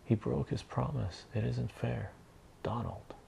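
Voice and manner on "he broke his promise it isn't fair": put-on higher-pitched child's complaint; mock crying child. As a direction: complain like an upset little kid. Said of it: "he's crying".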